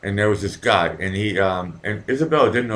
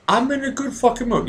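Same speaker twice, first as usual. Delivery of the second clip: good mood; 14 semitones higher than usual. Real, not acted. Cheery outburst after beer.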